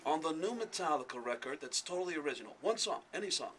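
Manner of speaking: lightly voiced rock star, measured and self-assured; a hint of a celebrity impression, calmly accusing; a rock star impression. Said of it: "and a fake rock star".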